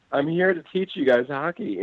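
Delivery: high-pitched, exasperated protest; annoyed. Retold or imitated. Annoyed player tells kids he teaches hockey, exasperated. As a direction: imitate a fed-up coach complaining. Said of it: "He was so annoyed".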